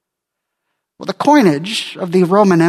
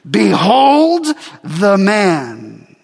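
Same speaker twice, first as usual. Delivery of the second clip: slow, drawn-out mock presentation; contemptuous ridicule; 3 semitones higher, much slower than usual. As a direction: hold him up for scorn, very slowly. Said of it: "Pilate contemptuously ridicules".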